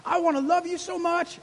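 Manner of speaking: loud, high, impassioned shout; righteous anger. Acted. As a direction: cry out to God in holy fury. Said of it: "almost like righteous anger".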